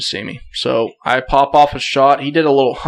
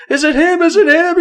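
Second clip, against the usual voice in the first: very high-pitched, urgent repeated question; frantic excitement; 4 dB louder than usual. Retold or imitated. Hunter retelling how he ran up to his buddy, frantically excited. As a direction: squeal it, desperate to know.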